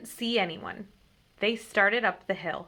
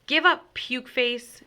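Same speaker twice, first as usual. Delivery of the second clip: slow, loud, higher taunt; 4 semitones higher, 5 dB louder, slower than usual. A narrator's reading. Big Mike taunting James's army, loud. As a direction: sneer it at the enemy.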